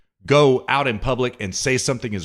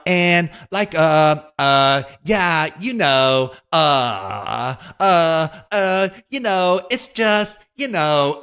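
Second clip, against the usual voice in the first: higher, louder mocking of stumbling filler words; mocking AOC's halting speech; 6 semitones higher, 4 dB louder, much slower than usual. Host mocking AOC's halting panel talk, higher and louder. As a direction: parody a politician fumbling for words. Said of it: "he did a montage of A O C's sound bites".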